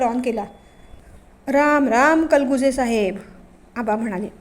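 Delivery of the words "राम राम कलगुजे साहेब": slow, drawn-out, louder village greeting. Acted. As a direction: stretch the greeting out grandly. Aaba greets the inspector.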